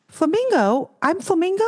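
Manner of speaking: high, indignant questioning; offended by the name; mock-outraged high squeak; annoyed disbelief. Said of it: "she was really annoyed".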